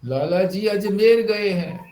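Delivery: "अजमेर" joined up, long e in the last syllable; corrected reading as अजमेर. Shown as a demonstration. Wise man correcting the misread letter, "अजमेर" as one word. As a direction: stress "अजमेर" as one place name. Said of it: "और आज अजमेर गए हैं".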